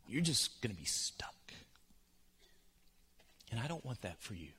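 a soft, grave whisper; hushed warning whisper. Acted. Intimate sermon moment.

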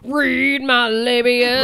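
slow chewed mock words; chewing imitation. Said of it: "When people chew into their microphones".

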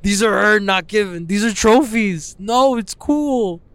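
high, whiny protesting voice; mock defensive explaining. Fighter explaining cauliflower ears to strangers, mock defensive. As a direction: plead your case in a high mock whine. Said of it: "me constantly trying to explain".

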